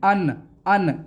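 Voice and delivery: अन with a sharp clear noon; wrong clear-n अन. Shown as a demonstration. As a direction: say अन ending on a plain n. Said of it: "ऐसे नहीं".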